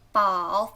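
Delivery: 宝 in a low, dipping third tone; low Mandarin third tone on 宝. Shown as a demonstration. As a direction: dip the pitch down on 宝.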